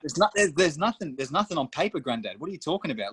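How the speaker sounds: high, laughing protest; laughing disbelief at granddad. Retold or imitated. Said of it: "and I'm thinking".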